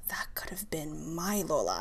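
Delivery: hushed, slow whisper. Retold or imitated. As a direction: breathe it out softly, barely voiced. Grieving thought about assaulted elderly.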